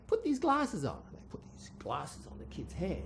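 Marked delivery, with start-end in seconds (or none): 0.1-1.0 priest. Acted. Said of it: "they say".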